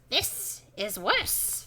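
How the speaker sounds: very slow, put-on ominous murmur. A narrator's reading. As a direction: draw each word far out. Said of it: "he murmurs".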